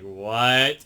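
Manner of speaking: a loud, questioning "what?"; surprised. Retold or imitated. She reacts to what he's talking about, surprised. Retelling Marinette's startled reaction.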